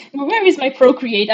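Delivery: slow words through a giggle; laughing search. Real, not acted. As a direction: chuckle while hunting for the app. Lacht terwijl ze zoekt.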